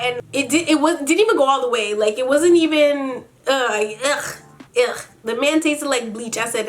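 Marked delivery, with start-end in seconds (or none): 3.5-5.0 throaty groan of disgust; disgusted ugh. Real, not acted. Recalling a man who tasted like bleach, disgusted. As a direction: recoil with repeated ughs.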